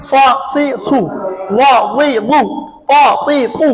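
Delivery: reading practice for pupils; brisk syllable reading. Shown as a demonstration. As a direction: rattle off the syllables in a steady drill rhythm.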